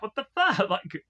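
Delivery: high, sharp disbelief; shocked outburst. Retold or imitated. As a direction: blurt it out, startled. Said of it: "I'm like".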